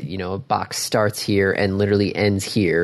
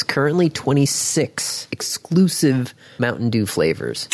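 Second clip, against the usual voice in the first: dramatic whisper; 4 semitones higher than usual. Pretend.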